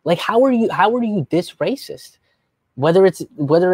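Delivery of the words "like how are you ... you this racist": incredulous outburst. Retold or imitated. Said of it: "I'm just like".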